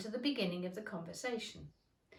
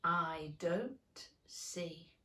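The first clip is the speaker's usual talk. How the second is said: whisper; 3 semitones lower, much slower than usual. Acted. Terse caterpillar reply.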